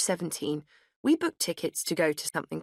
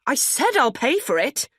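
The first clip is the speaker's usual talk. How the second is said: higher, louder indignant retort; 9 semitones higher, 6 dB louder than usual. A narrator's reading. Narrator cutting off the sales assistant, indignant and louder. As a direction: snap back, indignant and loud. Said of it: "I replied indignantly".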